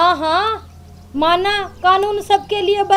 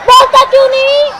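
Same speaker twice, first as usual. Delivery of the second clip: raised, insistent mock offers; angry sarcasm; 3 semitones higher than usual. Wife offering husband tea options, angry sarcasm. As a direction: pile up the questions in irritation. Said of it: "इतना गुस्सा क्यों हो रही है".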